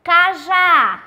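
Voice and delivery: Cajá loud, with the já stressed; teacher models Cajá; stress on the last syllable. Shown as a demonstration. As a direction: call out Cajá, hitting já. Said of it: "ela já tem acento".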